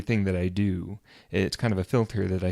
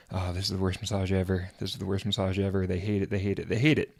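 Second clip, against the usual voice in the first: quick, repetitive run of mock worry; mock anxious thoughts; faster than usual. Massage therapist imitating his own worry mid-massage, rapid mock fretting. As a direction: rattle it off like a looping worried thought. Retold anxious inner monologue.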